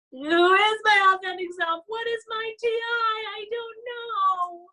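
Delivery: high, slow sing-song puzzling; half-sing the question, lost; mock-bewildered sing-song; confused musing.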